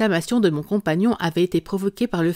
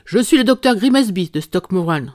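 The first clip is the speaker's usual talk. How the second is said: loud announcement; 5 dB louder than usual. Acted. Hostile visitor announces himself.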